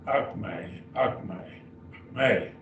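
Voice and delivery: akme said AHK-may; teacher's model Greek. Shown as a demonstration. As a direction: repeat akme slowly for the class. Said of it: "And this is akme".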